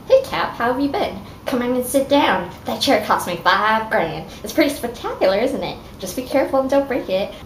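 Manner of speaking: tossing off a boast about the chair; voicing Tony. Tony showing off his chair to Cap, lightly cocky. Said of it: "Tony says".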